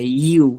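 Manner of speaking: drawn-out "ইউ"; lengthened U. Shown as a demonstration. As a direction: stretch "ইউ" into a long yoo. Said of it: "একটু লম্বা করে".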